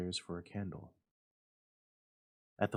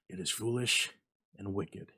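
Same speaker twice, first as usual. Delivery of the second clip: faltering. A narrator's reading. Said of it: "he faltered".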